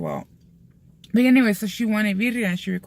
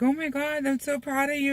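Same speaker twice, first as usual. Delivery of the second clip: gushing praise; 8 semitones higher than usual. Retold or imitated. Retelling partner's praise, high imitated gush. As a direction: imitate proud praise in a raised voice.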